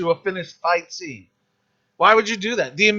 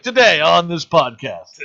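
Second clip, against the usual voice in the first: announcer voice; 5 dB louder, slower than usual. Retold or imitated. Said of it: "You're like".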